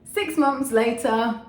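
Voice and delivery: loud, high, drawn-out announcement; time-skip announcer. Pretend. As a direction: proclaim the time jump slowly and loudly. Time-skip caption, said twice.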